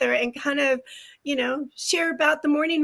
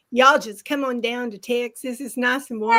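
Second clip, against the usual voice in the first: Texas accent. Shown as a demonstration. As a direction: invite them down to Texas in a mild Texas accent. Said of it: "I'm gonna put on my Texas accent".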